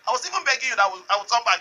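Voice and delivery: a driver begging the police not to take him; pleading. Retold or imitated. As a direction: beg desperately to be let go. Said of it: "he was begging".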